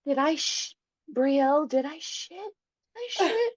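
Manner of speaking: frantic, rising and pleading; a high, desperate question during labour; mother in labour frantically asking the midwife; panicked asking. Retold or imitated. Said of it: "I kept being like".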